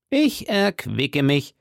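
drawn-out, deliberate character voice; slow repeat. Acted. Host repeats his excuse, slow and deliberate. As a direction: stretch each word out slowly.

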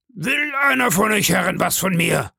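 high, forceful challenge at moderate volume; bellowing challenge. Acted. Pirate leader dares his mutinous crew, bellowing. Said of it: "brüllte Silver".

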